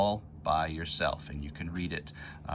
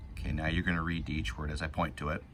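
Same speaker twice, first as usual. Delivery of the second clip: normal talking voice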